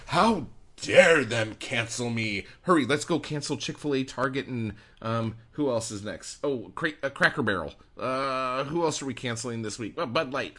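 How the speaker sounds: put-on lampoon a huffy TV pundit listing boycotts; mock Tucker Carlson. Mocking a pundit's boycott rant for the writer. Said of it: "get all fucking Tucker Carlson and go".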